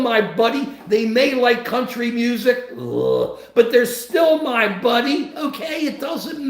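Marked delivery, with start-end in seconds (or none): 2.7-3.4 low mock groan of distaste; disgusted groan. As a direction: let out a low, playful ugh. Mock distaste at country music.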